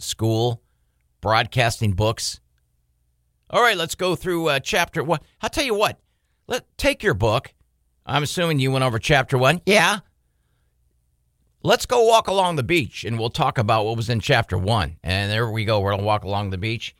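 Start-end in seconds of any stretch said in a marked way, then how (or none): 3.5-15.0 laid-back teacher voice. Retold or imitated. Lazy radio teacher quoted.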